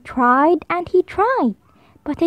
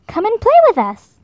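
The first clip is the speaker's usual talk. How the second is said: higher, lively small voice; little monkey inviting lonely Hippo, voiced higher; 7 semitones higher than usual. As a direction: invite him like a friendly tiny monkey.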